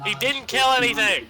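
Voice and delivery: high call down below; yelling over cliff. Acted. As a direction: call it down to companions. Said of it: "I'm yelling over the cliff".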